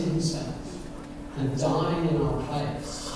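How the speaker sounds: quiet heartfelt close; tender appeal. Real, not acted. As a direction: draw them in gently.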